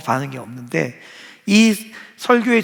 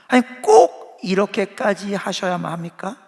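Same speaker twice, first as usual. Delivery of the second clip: complaining; 3 semitones higher than usual. Retold or imitated. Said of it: "이게 요나가 지금 하고 있는 얘기입니다".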